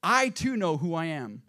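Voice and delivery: storyteller voicing a fed-up reply; exasperated. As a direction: push back with emphatic, mock frustration. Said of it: "Exasperated, Einstein looked up and said".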